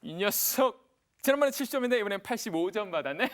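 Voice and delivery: hearty acted praise; pleased parent. Parent to child whose grade went up, pleased praise. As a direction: proudly greet the child's improved score. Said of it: "얼마나 기쁘세요?".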